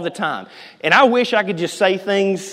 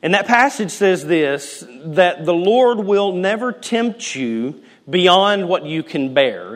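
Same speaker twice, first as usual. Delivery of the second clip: normal talking voice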